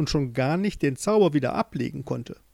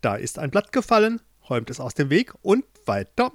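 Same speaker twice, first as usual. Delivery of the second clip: bossy queen; 2 semitones higher than usual. Acted. Queen orders workers.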